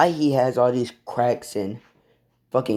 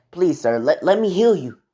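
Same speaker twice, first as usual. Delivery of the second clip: urgent pleading; 5 semitones higher, 4 dB louder than usual. Acted. Healers plead with injured hero.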